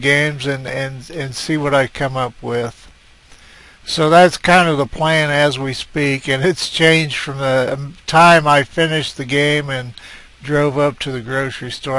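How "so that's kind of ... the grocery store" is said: slightly winded after the drive; out of breath. Real, not acted. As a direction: talk a little short of breath. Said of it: "I'm a little bit out of breath".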